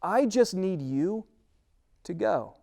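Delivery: God reassuring a nervous Moses, calm and slow. Acted. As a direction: settle him down gently and slowly. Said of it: "And God says".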